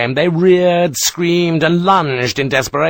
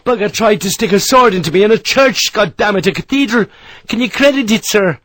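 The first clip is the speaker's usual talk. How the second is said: much higher, indignant outburst; outraged; 10 semitones higher, 4 dB louder than usual. Acted. Harper complains to Sharp about the attack, outraged. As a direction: vent outrage at the sacrilege.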